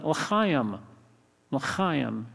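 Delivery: l'chaim with a throaty ch; guttural ch. Retold or imitated. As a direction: scrape the ch in l'chaim at the back of the throat. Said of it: "that's a guttural".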